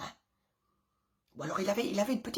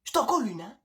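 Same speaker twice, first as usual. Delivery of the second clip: louder, clipped threat of a slap; angry threat; 2 semitones higher, 6 dB louder, faster than usual. Retold or imitated. Mother warning her child she'll slap him, loud angry threat. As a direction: warn the kid one last time.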